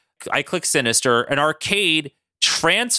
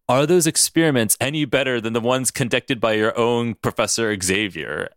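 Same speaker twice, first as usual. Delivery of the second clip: Mister Sinister; 5 semitones lower than usual. Acted. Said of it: "And Sinister goes".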